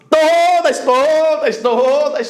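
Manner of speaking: "todas" punched each time with a stretched first syllable; emphatic repetition. Shown as a demonstration. Teacher insisting the rule covers every word, stressing "todas". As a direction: hammer "todas", easing down with each repeat. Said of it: "eu disse todas".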